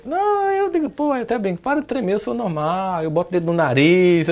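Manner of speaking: protesto brincalhão, bem mais agudo; brincando. Retold or imitated. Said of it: "eu até brinco assim". (brincadeira em tom bem agudo)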